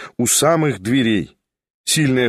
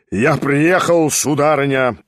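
thundering like a trumpet; 2 semitones higher than usual. Acted. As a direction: boom it out like a trumpet blast. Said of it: "прогремел было он, как в трубу".

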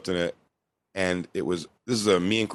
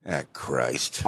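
lower, soft disappointed dad; low tired sigh; 9 semitones lower, 6 dB quieter than usual. Retold or imitated. Dad at the counter watching the security camera, low and weary. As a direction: mutter it low and quieter, weary.

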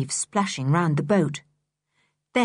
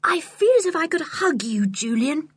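overjoyed; 8 semitones higher than usual. Acted. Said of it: "George was overjoyed".

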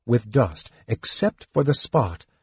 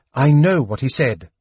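impatient; 3 semitones higher, 3 dB louder than usual. Acted. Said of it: "Lorana replied impatiently".

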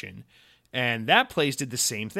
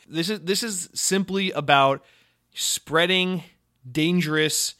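spreading and dangerous each hit higher and louder, one by one; emphatic stress; 4 semitones higher, 4 dB louder, slower than usual. Real, not acted. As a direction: hammer every word of it. Ranting about dangerous messages.

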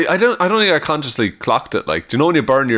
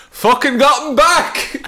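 gloating laugh; 12 semitones higher, slower than usual. Real, not acted. Gloating comeback at friend.

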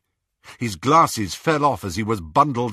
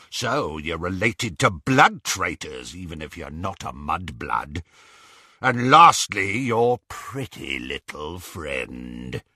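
relishing; 3 semitones lower than usual. Acted. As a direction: savour the girl's fear. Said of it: "The relish in his voice".

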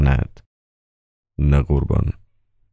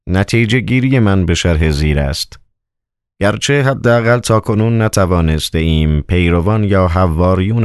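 a lightly voiced governor giving orders, a touch raised; a hint of a commanding Roman procurator; stern governor; 3 semitones higher than usual. Procurator orders his secret agent to bury the bodies, lightly commanding.

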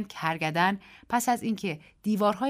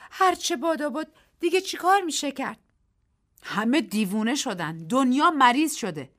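despairing Daisy; 7 semitones higher, 5 dB louder than usual. A narrator's reading. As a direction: give up on the world. (دیزی ناامید، کشیده)

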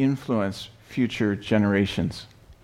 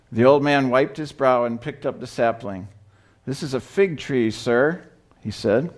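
story reading; 2 semitones higher than usual. A narrator's reading. Pastor reads children's story aloud.

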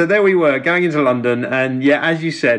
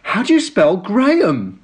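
posh English lady, pitch raised; posh ticket lady flustered; 4 semitones higher than usual. Retold or imitated. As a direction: put on a frightfully posh receptionist voice. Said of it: "frightfully, frightfully posh".

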